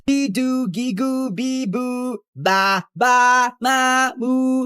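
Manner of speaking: put-on childish taunting babble to tune out a rant; mocking baby babble. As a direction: drown her out with silly high babble. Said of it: "I'm not listening to your rant".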